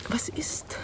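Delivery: hushed whispered question; whispering to her companion. Acted. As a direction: breathe the question without voice.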